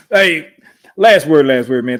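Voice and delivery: calling out loudly to hand over the last word. Real, not acted. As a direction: grab his attention, hey, last word. Host calls on guest for closing.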